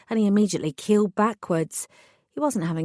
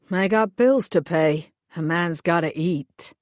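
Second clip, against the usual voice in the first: hired thug voice. Acted. Thug explains his orders to the heroine, sullen lowered voice. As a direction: play the sulky hired heavy explaining himself.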